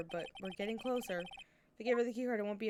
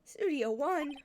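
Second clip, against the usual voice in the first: excited; 6 semitones higher, 5 dB louder, slower than usual. Acted. Old lady realizing the card.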